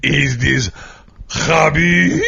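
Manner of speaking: put-on a light Russian accent, rising question. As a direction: ask in a hint of Russian accent. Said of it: "am I doing a Russian accent".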